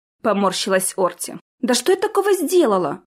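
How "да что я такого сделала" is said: high, indignant protest. A narrator's reading. Jessica protesting her blame, indignant outburst. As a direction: protest the unfairness. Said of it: "возмутилась Джессика".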